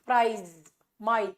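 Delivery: प्राइज, माई with the vowel sliding smoothly from 'ah' to 'ee'; gliding diphthong. Shown as a demonstration. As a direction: draw out the glide in प्राइज and माई. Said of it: "एक vowel से दूसरे vowel की तरफ smoothly जाता है". (प्राइज, माई में 'आ' से 'ई' तक स्मूथ स्लाइड)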